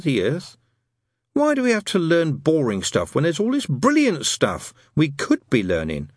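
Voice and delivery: lightly voiced boy's grumble, emphatic; Brian, wistful schoolboy. Boy complains to friends about boring school, emphatically. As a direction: dwell on each grievance like a puzzled child.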